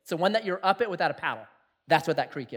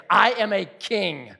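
proud declaration; slower than usual. Shown as a demonstration. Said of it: "just say".

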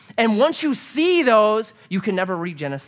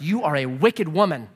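higher, louder mock outrage at the godmother; hammed-up indignant rant, higher and louder; 5 semitones higher, 4 dB louder than usual. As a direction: scold her like a wronged kid. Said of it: "I'm like".

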